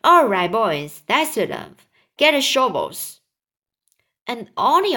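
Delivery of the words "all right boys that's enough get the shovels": a louder call to the crew. Acted. Crowman orders the other crowmen to shovel, loud call. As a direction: shout the order across the cloud. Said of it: "they heard him shouting".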